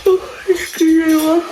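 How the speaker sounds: hiccup then apology; hiccuping mid-sentence. Real, not acted. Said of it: "J'ai le hoquet".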